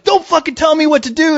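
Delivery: high-pitched imitation of an irate cop; retold angry cop. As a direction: act out his cursing comeback. Acted quarrel, cop's side.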